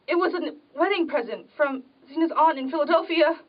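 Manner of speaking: crying, dragging out the name Ethan; tearful despair. Acted. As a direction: she breaks down over the broken dish. Broken dish, she weeps.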